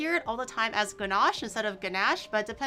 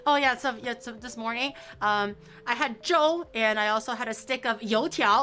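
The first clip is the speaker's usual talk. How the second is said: mock show-off speaker; 5 dB louder than usual. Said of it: "Like, uh".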